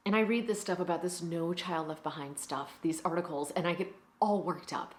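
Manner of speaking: indignant, then confiding teacher; aggrieved teacher. Acted. Teacher stuck with brats all day, aggrieved.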